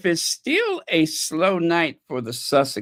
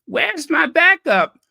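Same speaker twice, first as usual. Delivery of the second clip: diva callout; 12 semitones higher, 6 dB louder than usual. Pretend. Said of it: "Patti LaBelle style".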